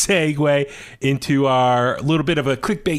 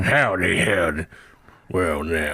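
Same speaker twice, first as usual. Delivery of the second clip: lower, drawn-out Texas howdy; Texas accent; 6 semitones lower, slower than usual. Pretend. Host shows his Texas accent to cohosts, deep Texas drawl. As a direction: lean into a lazy Texas cowboy greeting. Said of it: "I do a Texas accent".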